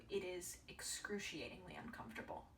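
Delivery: quietly whispered for weight; hushed. Real, not acted. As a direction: drop to a breathy hush on it. Stressing discomfort, repeated line.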